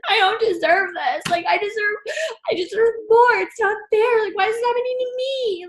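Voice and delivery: half-laughing mock sob, pitch climbing high; retold crying. Crying alone in bed over her broke life, mock sobbing whine. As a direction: whimper it like a self-pitying cry in bed. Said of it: "I start crying".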